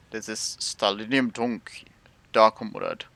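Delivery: a hint of a hammed-up Russian accent; slow, lightly put-on Russian accent; mock Russian accent. Gamer clowning to stream in a half-hearted Russian accent. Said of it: "I'm not really good with a Russian accent".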